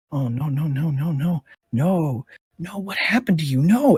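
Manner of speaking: high wailing dismay over a body; distraught creature. Acted. Creature finds a companion's corpse.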